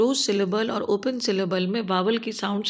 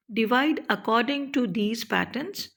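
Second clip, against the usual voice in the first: slow step title; much slower than usual. Shown as a demonstration. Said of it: "step four की बारी".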